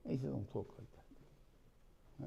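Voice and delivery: slow suspicious whisper; doubtful whisper. Acted. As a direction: whisper it slowly, unconvinced. Blind father doubts the voice.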